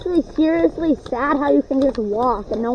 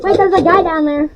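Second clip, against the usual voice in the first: loud alert; 4 semitones higher, 5 dB louder than usual. Real, not acted. Spotting an enemy, alerting team.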